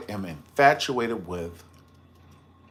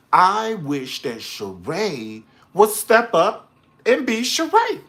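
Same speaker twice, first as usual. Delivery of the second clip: pleading; 8 semitones higher, 5 dB louder, slower than usual. Real, not acted. Pleading for Sheree to return.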